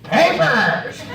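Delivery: curt cop command again. Retold or imitated. Police officer repeating his demand, curt and flat. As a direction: snap the one word like a cop. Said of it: "just like that".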